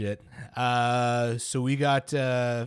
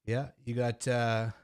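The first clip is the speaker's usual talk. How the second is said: out of breath; 3 semitones lower, 5 dB quieter than usual. Real, not acted. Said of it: "oof, I'm out of breath".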